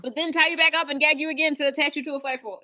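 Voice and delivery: mocking voice. Mocking the plan, continued.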